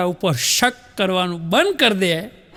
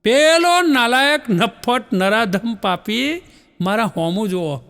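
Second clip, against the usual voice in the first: mock indignant wife; 3 semitones higher, slower than usual. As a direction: play a wife complaining of a starer. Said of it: "પતિને શું કહે".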